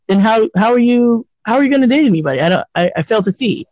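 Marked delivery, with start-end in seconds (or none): 0.1-2.4 high exasperated question; incredulous, pitched up. Real, not acted. Exasperated about men dating.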